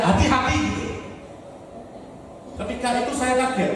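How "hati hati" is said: mild mock cry of alarm; retold warning cry. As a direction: imitate a wife's startled warning. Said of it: "istrinya malah teriak".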